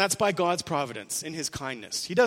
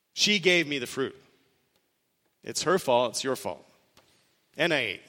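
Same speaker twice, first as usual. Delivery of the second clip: blame-shifting excuse. Retold or imitated. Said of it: "remember what he said".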